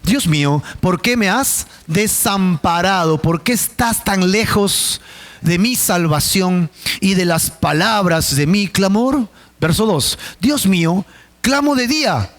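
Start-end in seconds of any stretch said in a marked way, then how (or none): 0.0-6.7 scripture reading. Acted. Reading the psalm aloud.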